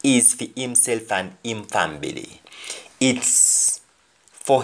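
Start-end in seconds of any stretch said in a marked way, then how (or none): 0.0-2.4 Jamaican patois. Shown as a demonstration. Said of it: "pronounced as family".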